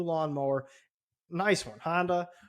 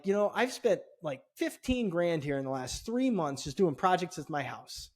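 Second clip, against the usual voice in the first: higher, heated customer threat; fuming threat; 4 semitones higher than usual. Retold or imitated. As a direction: lay it out, voice climbing in anger. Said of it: "So I was fuming".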